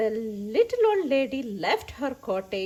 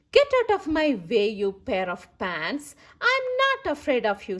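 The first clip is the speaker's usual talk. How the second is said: put-on bold old lady. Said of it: "said the little old lady".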